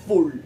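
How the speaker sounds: full ending on a clear French L; full L, mistaken. Shown as a demonstration. What you won't hear, full with a hard L. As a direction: sound the L of full out completely. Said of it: "Vous n'allez pas entendre full".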